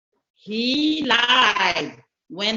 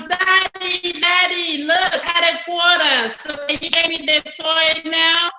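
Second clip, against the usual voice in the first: put-on eager little boy; 5 semitones higher than usual. Boy greeting his uncle and asking for money, high and eager. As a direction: ask like an excited little boy.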